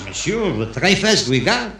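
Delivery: put-on light comic French-accented waiter; French accent, lifting on the dish. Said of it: "And the waiter says".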